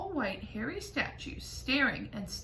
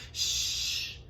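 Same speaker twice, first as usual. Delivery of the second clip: breathy shushing whisper. A narrator's reading. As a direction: hush them urgently. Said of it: "the others whispered".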